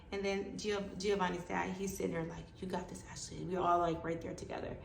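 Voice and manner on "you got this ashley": very soft encouragement; reassuring. Retold or imitated. Baby's dad to patient, softly reassuring. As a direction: quietly cheer her on. Partner comforts scared patient.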